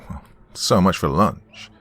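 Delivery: slow, resigned sigh. Acted. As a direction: let it out on a weary sigh. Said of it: "sighed Dawn".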